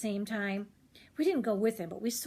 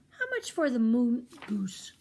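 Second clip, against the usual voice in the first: put-on slow, louder, deliberate girl voice; businesslike girl; 3 semitones higher, 5 dB louder than usual. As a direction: ask the price like a tough little buyer. Rosie bargains.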